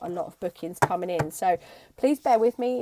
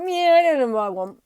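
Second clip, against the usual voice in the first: unsure Aries reply; 6 semitones higher, 10 dB louder than usual. Acted.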